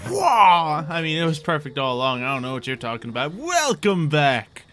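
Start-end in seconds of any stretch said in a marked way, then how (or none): 0.1-0.8 sudden high, loud "wah"; mock cry. Exclaims while resetting the screen. 3.3-4.6 slow, drawn-out announcer welcome; show host intro. Pretend. Game master reopens the show.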